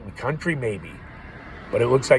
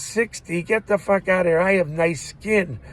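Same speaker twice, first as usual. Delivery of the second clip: offended retort; 6 semitones higher, 3 dB louder than usual. Retold or imitated. Offended man at carnival booth.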